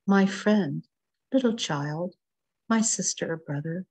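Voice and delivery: unhurried poem recital with weighted pauses between phrases; poetry reading. Acted. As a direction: read it as a gentle plea to be heard. Reads When I Speak Softly.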